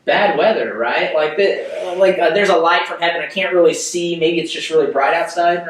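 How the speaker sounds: a lightly voiced, bemused Saul shrugging off the light; Paul's inner thought. Leader voicing Saul's guess about the light, mildly bemused. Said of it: "maybe Paul is just thinking".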